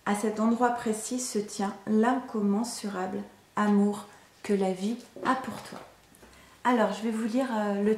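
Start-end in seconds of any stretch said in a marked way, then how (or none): 0.1-5.8 measured, even read-aloud delivery; spiritual message reading. Acted. Reader offers a message of love and surrender, measured reading. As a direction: read it as a guided inspirational text. Rereads the message's last sentence.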